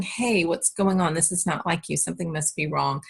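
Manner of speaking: gentle concern. Shown as a demonstration. Parent connecting with yelling child.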